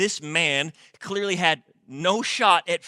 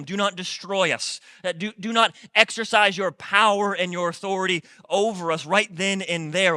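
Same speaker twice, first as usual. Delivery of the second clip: mock begging; 5 semitones higher, 7 dB louder than usual. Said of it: "they're, they're begging him".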